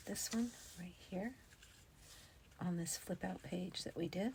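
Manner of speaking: soft whispered narration; whispering. Real, not acted. Crafter telling viewers her next step, whispered. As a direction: keep it a breathy hush.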